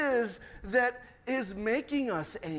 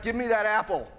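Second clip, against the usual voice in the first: mock angry grab; 5 dB louder than usual. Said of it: "Outward would be like".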